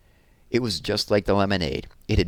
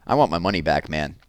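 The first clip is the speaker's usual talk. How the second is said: put-on louder, put-out teen; annoyed skater kid; 4 dB louder than usual. Skateboard boy complaining to Evan, louder. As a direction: demand the money back, fed up. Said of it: "said an older boy on a skateboard".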